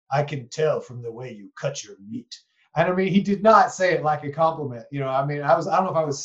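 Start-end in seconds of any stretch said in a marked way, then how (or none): 0.1-2.3 lightly imitated German accent; a hint of German accent, disapproving. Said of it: "I'm not doing a very good German accent".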